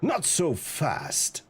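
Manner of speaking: sly low villain. Acted. Voicing Black Cat.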